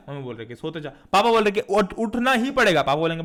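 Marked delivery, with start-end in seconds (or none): 0.5-0.9 a hint of a soothing mum; lightly voiced mother. Mother's side, soothing against father. 1.6-2.8 higher, slow, insistent order; a hint of dad laying down the law; lightly voiced father.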